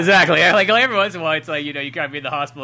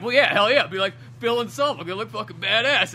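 hyped up; 8 semitones higher, 6 dB louder than usual. Retold or imitated. Retelling pumping himself up.

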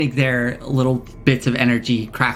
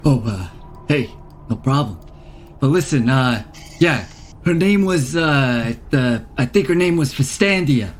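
put-on lightly done Queens wise-guy accent; a small creature talking like a guy from Queens; light New York Queens accent, a touch brash. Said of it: "I'm from Queens".

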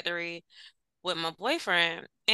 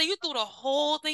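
indignant; 6 semitones higher, 3 dB quieter than usual. Retold or imitated. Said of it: "I said".

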